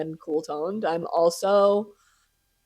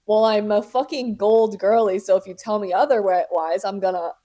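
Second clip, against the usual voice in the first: mock defiant; 2 semitones higher, 5 dB louder than usual. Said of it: "And me being".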